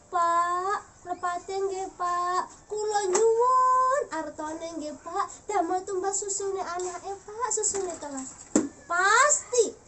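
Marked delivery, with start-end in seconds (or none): 0.1-8.3 unhurried, tender Javanese request; soft, gentle voice. Shown as a demonstration. Wife asking husband for milk money, soft and gentle. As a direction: ask softly and carefully, stretching the plea. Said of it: "hati-hati, pelan-pelan, dengan suara yang lembut".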